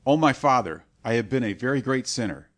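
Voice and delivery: loud pleading confession to the priest; dying man crying out his sins; anguished cry. A narrator's reading. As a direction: cry it out to the monk, desperate. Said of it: "he cried".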